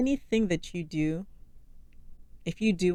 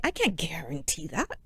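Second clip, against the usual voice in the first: whispered repeat of the line; a hushed whispered aside; 5 dB quieter than usual. Real, not acted. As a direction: breathe it out under your breath.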